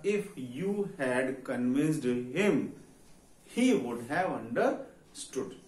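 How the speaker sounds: each word spaced out very slowly, x0.3; slow dictation. Shown as a demonstration. Teacher dictating to the class, very slow and deliberate. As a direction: dictate it word by word for students to copy.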